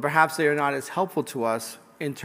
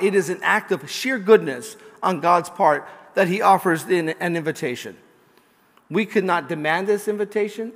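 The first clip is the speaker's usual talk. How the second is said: raised, emphatic homily voice; impassioned preaching; 5 semitones higher, 6 dB louder than usual. Real, not acted. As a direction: preach it with force, driving each point home. Preaches with rising force.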